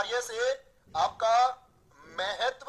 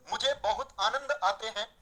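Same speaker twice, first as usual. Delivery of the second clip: slow reading. Shown as a demonstration. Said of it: "आनंद आते हैं या आनंद आता है".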